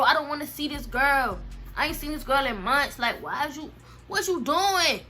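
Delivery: rising exasperated complaint. Retold or imitated. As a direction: pile on the disbelief. Exasperated at cousin.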